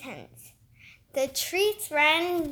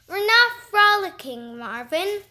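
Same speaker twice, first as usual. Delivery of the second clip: bright, a bit louder, with forced cheer; 4 semitones higher, 5 dB louder than usual. Acted. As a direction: keep it cheerful through gritted patience. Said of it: "as cheerily as she could".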